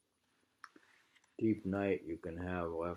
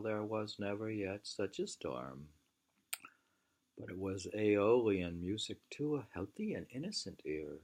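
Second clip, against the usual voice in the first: reading aloud; 2 semitones higher, 4 dB louder than usual. A narrator's reading. Rereads Walden passage aloud.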